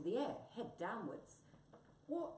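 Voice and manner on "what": very high, loud squeaky wail; indignant high-pitched mouse cry. Acted. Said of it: "wailed Mouse behind the scenes".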